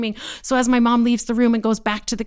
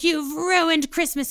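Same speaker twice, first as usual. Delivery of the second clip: high, drawn-out mom imitation; mock-aggrieved mother; accusing mother; 7 semitones higher, slower than usual. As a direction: lay blame slowly in a raised pitch. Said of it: "And my mom's like".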